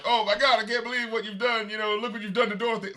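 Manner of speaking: mock outrage over the wrecked car; Sinbad freaking out. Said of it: "he sees, like".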